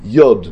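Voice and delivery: יוד said "yod", with an o; יוד with an o vowel, not u; vowelled letter name. Shown as a demonstration. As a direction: stress a falling "yod" for יוד. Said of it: "איזה ניקוד אתה מוציא את האותיות".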